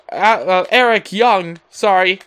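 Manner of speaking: tripping over the name; stuttering. Real, not acted. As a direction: stammer before the name. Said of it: "I'm stuttering here tonight".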